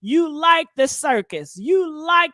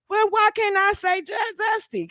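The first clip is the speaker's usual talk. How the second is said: indignant shout; 5 semitones higher than usual. Real, not acted. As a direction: demand it, exasperated. Indignant protest.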